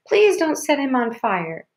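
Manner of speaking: put-on high, wailing child's plea; little girl pleading in distress; hysterical. A narrator's reading. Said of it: "went crazy".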